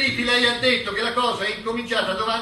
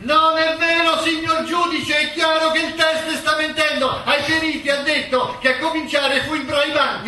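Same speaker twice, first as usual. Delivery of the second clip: higher and louder, insisting to the judge; loud accusation; 5 semitones higher, 3 dB louder than usual. Acted. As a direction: call out the lie to the bench. Prosecutor appeals to judge, accusing.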